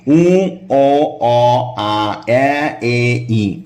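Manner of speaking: vowels drawn out from উ back to ই; vowel drill backwards. Shown as a demonstration. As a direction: drill each vowel in reverse, clearly. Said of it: "এভাবে আবার, আবার এদিকে আসবেন". (উল্টো দিকে স্বরধ্বনি অনুশীলন)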